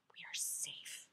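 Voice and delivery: soft hushed blessing; whispered affirmation. Acted. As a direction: whisper it as a comfort.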